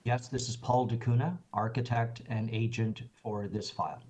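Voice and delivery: real soft, under-projected introduction; too quiet. Real, not acted. Agent introduces himself to the committee chair, too quietly. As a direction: speak softly, barely carrying to the listener. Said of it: "Could you speak up a little louder?".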